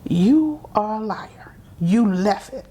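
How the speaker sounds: hushed accusing hiss from dad; father calling his daughter a liar, in a hushed accusing hiss; mock whispered accusation. A hushed, menacing accusation.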